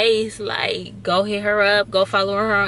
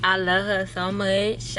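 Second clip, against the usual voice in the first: slow, drawn-out Chicago accent; slower than usual. Shown as a demonstration. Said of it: "I'm trying to put on a Chicago accent right now".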